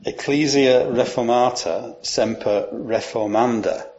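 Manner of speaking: "Ecclesia reformata semper reformanda" in slightly lifted church Latin; Latin pronunciation. Shown as a demonstration. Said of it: "I apologise for my Latin accent".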